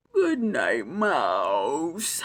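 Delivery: sleepy mumbled good night, Mouse rising at the end. Acted. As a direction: drift off while saying it. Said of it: "mumbled Bear".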